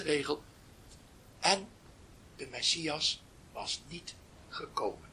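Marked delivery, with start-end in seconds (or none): 1.4-5.1 slow, soft whisper of the last line; whispered ending. A narrator's reading. Storyteller closing the tale for listeners, slow whisper. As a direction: let the final words fall away in a whisper.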